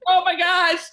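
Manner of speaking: high, loud mock disbelief; retold shock. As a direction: exclaim in comic horror. Her shocked reaction to the agent.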